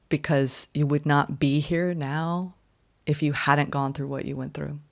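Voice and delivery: gentle universe. Retold or imitated. Reader voicing the universe blessing Sag, soft and gentle. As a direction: give it kindly, like a blessing. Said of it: "the universe bowing down and saying".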